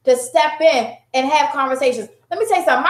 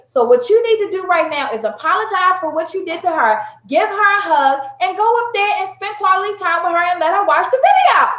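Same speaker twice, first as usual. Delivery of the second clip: stern mom; 5 semitones higher than usual. Retold or imitated. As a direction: lecture building to a higher pitch. Acts out scolding her older daughter.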